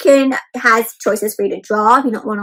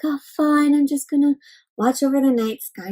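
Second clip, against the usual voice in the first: unenthusiastic; 4 dB quieter than usual. Acted. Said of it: "Not really excited about it".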